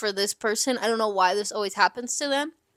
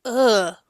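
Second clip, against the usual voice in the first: short "ugh" of revulsion; disgusted groan. Real, not acted. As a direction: groan at something gross. Reacting to disease symptoms.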